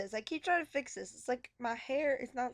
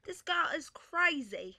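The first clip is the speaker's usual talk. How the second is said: put-on British accent; 3 semitones higher, slower than usual.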